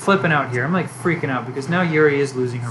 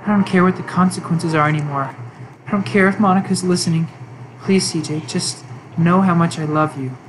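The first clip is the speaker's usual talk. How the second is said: obsessive Yuri. Acted. Yuri pulls the player away from Monika, lightly obsessive murmur. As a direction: lean in, obsessed and hushed.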